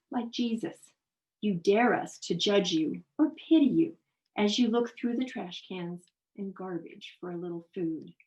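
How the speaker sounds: emphatic, phrased poetry recitation; verse reading, forceful early then easing; poem reading. Acted. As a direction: read the poem as if addressing its subject directly. Reads a poem aloud.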